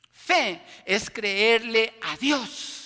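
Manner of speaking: every word of "Fe es creerle a Dios" drawn out slowly and loudly; slow emphatic definition. Acted. Preacher defining faith for the church, slow and loud. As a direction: lean hard on "Fe", slow and deliberate.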